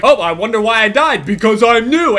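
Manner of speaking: mock him with feigned wondering. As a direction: imitate a player's sarcastic jeer. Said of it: "he just kept mocking me".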